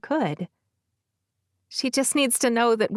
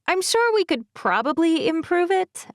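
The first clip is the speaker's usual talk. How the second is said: brighter voice; 8 semitones higher than usual. Acted. Narrator's own quoted line.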